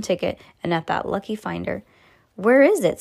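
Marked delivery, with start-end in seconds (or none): 2.3-3.0 loud high shout. Acted. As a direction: call out from the crowd. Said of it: "somebody shouted".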